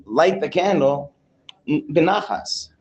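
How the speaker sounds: composed, measured request, not commanding; calm, gentle instruction. Shown as a demonstration. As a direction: say it calmly and unhurried. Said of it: "He has to say it calmly".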